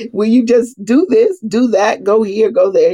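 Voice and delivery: lightly imitating bossy family orders; mock commands. Family member barking chores, mild mock bossy voice. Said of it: "I was raised speaking in commands".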